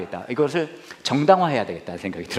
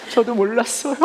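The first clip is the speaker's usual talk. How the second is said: higher, louder cheeky punchline; amused punchline; 10 semitones higher, 4 dB louder than usual. Retold or imitated. Pastor repeating his inner punchline to the crowd, cheeky and loud. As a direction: toss it out loud with a grin.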